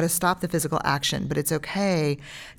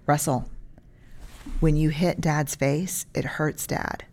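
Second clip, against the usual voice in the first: put-on calm, firm words to a toddler; calm parent voice. Shown as a demonstration. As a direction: set the boundary gently but firmly. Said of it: "like you're hitting me like a two-year-old".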